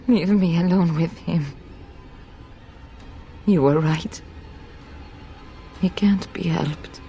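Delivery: low, grave, resigned plea; grim resignation. Acted. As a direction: speak low, resolved to do the unbearable. Mother resolves to end it herself.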